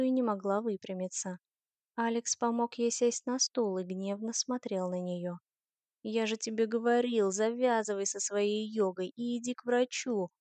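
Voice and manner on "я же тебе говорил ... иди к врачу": mildly scolding. Acted. Alex tells Liv to see a doctor, mildly scolding. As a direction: tell her off, without raising the voice much. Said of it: "отчитывал её Алекс".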